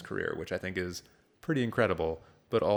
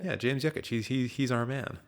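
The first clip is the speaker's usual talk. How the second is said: eager exec; 5 semitones higher than usual. Retold or imitated. Studio execs pick the director.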